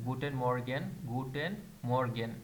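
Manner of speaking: গুটেন মর্গেন said twice, clearly; teacher repeating guten Morgen; German pronunciation example. Shown as a demonstration. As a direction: model গুটেন মর্গেন for students. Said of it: "pronunciation example দেওয়া আছে".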